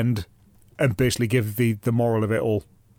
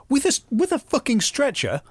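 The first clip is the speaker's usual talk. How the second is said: disbelieving, pitched-up question; incredulous; 11 semitones higher than usual. Real, not acted. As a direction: ask it in outraged disbelief. Incredulous about the stretcher.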